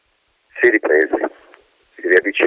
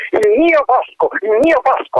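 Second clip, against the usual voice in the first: shouting at full voice. Acted. Colonel runs to the hole shouting to the wind. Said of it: "gridando a tutta voce".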